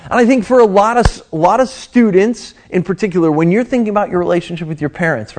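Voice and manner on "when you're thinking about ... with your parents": usual speaking voice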